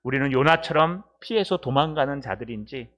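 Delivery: steady, earnest closing prayer; spoken prayer. Real, not acted. Pastor thanks God after the sermon, praying. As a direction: address God in a measured, even-pitched prayer.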